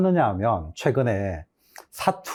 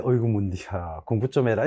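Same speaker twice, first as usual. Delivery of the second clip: fond dialect scolding; 5 semitones lower, 4 dB quieter than usual. Shown as a demonstration. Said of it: "애착하고 애정이 가는 사람한테".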